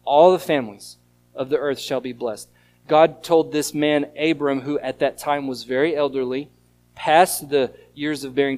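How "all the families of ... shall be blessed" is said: highlighted quotation; emphasized phrase. Shown as a demonstration. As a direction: stress on All at the front of the phrase. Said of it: "draw your attention to the very last phrase".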